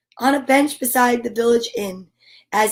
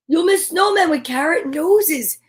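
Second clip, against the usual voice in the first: higher, pleading little mouse voice; small mouse; 5 semitones higher than usual. A narrator's reading. Mouse coaxing Bear to stay awake, high and pleading. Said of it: "cried Mouse".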